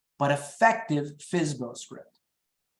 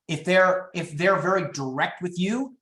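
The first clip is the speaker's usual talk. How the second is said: ordinary talk, nothing marked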